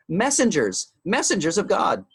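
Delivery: high, urgent calling out; Calvin shouting. A narrator's reading. Calvin straining to explain from across the table, shouting. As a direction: shout it with intense concentration. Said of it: "he shouted again".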